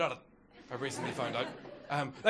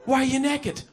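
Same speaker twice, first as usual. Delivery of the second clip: higher, louder outraged dad; angry dad; 7 semitones higher, 9 dB louder than usual. Retold or imitated. Dad to the son, a higher, louder outraged yell. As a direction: yell at the naked kid in disbelief.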